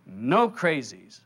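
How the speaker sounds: slow, drawn-out echo; doubter echoing. Acted. Listener repeating the voice's words, slowly compliant. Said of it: "You go".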